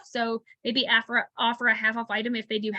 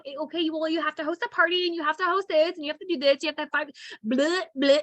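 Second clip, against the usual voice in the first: tedious spiel; 4 semitones higher than usual. Acted. Mimics tedious rules spiel not to give.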